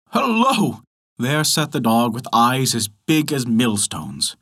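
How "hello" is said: surprised. A narrator's reading. Narrator startled by second dog.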